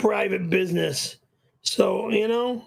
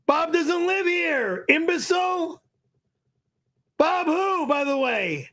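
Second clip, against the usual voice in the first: angry, higher pitched rant; 6 semitones higher than usual. Real, not acted. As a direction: snap at the fool.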